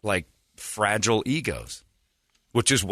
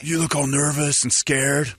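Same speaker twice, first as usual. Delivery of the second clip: higher, drawn-out mocking voice; Jeremy; 5 semitones higher, slower than usual. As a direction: mimic a know-it-all colleague, slowly. Mocking retelling of Jeremy's remark.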